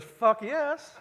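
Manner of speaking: loud, high burst of eager agreement; enthusiastic shout. Retold or imitated. New friend on the plane accepts the wine, mock shouting. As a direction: throw out a big delighted yes.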